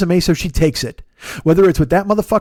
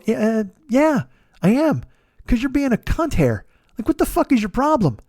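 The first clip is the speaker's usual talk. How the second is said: higher-pitched, exasperated comeback; exasperated retort; 5 semitones higher than usual. Retold or imitated. Answering the troll who calls him triggered, exasperated. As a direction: push back at the heckler, pitched up.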